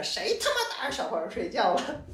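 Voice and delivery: put-on Beijing accent, laughing through it. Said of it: "用北京话".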